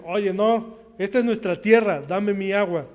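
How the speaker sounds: loud, indignant demand for their water; a retold, heated claim: this is ours; angry Philistines. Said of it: "llegan los filisteos enojados".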